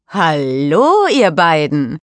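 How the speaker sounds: a hint of a cheerful boy greeting the girls; a boy's greeting. A narrator's reading. Daniel greets the two girls from behind, lightly voiced boy. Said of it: "Daniels Stimme direkt hinter sich".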